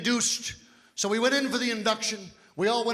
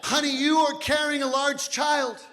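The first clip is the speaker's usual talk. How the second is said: slow explaining; 4 semitones higher than usual. Retold or imitated. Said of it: "the reason I can't do this".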